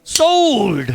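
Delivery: lightly voiced auctioneer, loud on sold; hammed-up auction call; a hint of an auctioneer banging the gavel; mock auctioneer. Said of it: "I sound like an auctioneer".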